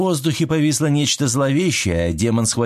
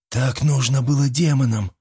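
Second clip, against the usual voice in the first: flat, uncaring reply; indifferent; 3 semitones higher than usual. A narrator's reading. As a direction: say it like it doesn't matter. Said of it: "равнодушно ответил Проказа".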